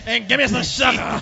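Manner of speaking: creepy sugar lady. Pretend.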